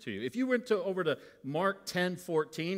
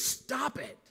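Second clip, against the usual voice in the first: stern command; 10 semitones higher than usual. Retold or imitated. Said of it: "his voice and his anger is".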